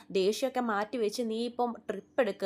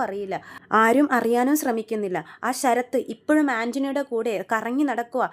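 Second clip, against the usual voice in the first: louder, heated scolding; retold angry tirade, raised voice; angry rant; 3 semitones higher, 4 dB louder than usual. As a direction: vent the frustration at the family. Sachi's angry tirade about Sharath.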